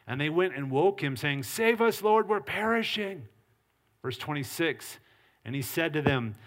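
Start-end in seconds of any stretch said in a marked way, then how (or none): 1.4-3.3 higher-pitched cry for help, read aloud; urgent plea. Acted. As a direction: voice the disciples' alarm, mildly urgent. Disciples in the storm wake Jesus.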